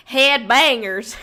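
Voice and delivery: drawn-out accent on "Head bangers"; put-on accent. Shown as a demonstration. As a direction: lean into a slow, exaggerated accent. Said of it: "like, a accent".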